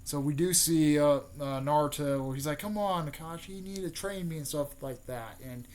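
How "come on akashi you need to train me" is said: higher-pitched, urging plea; mock pleading. Naruto asking Akashi to train him, mock pleading.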